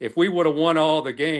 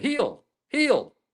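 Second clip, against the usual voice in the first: very high-pitched, jeering heckling yell; 13 semitones higher than usual. Retelling what someone yelled at you at the free throw line: retelling someone's yell. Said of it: "he's yelling at me".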